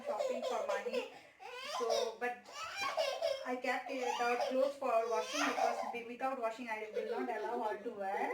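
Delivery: half-laughing through tears; teary. Real, not acted. Mother tearing up explaining her daughter's clothes, teary. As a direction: voice catching while explaining.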